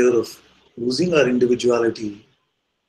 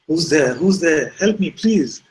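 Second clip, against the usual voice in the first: high, louder urgent calling; acted plea for help; 5 semitones higher, 5 dB louder, slower than usual. Cliff hanger calls to the mysterious voice, acted urgent plea. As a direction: play a man begging an unseen voice. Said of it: "So he's like".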